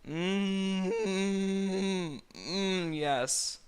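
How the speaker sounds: high, loud hammed-up moans; silly drawn-out moans; moaning. A narrator's reading. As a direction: overact the pleasure. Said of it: "Fiona moaned".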